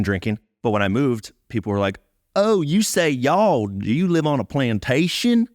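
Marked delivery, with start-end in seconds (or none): 2.3-5.5 put-on high, slow sneering kid voice, much higher; mocking schoolkids. New kid mimics classmates mocking his y'all, high and slow. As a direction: drag it out like a jeering classmate. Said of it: "I would get ridiculed".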